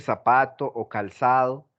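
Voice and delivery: "zapato o calzado" with z said as plain s; Latin American seseo. Shown as a demonstration. Teacher showing students our own sound, z as s. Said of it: "ese sonido nuestro".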